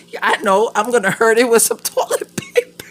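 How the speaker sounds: loud, high sarcastic quote through laughs; mock her own silly plan; mock sarcastic self. Mocking her own plan to the viewers, sarcastic. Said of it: "I was like".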